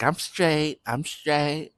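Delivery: slurred tipsy insistence; drunk slurring. Retold or imitated. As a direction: say it like a drunk who claims she's fine.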